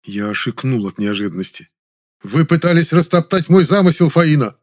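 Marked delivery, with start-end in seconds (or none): 2.2-4.6 high, loud sudden outcry; indignant exclamation; crying out. Acted. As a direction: shout the accusation. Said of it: "вскричал вдруг Завадский".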